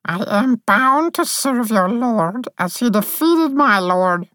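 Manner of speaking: high fairy voice gone grim and even; sullen, bound captive; a hint of darkness in the dreamy fairy; dark tone. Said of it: "in a dark tone".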